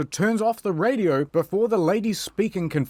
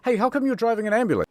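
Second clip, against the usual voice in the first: light female voice; 8 semitones higher, much faster than usual. Acted. Emma's quoted line in voiced playthrough.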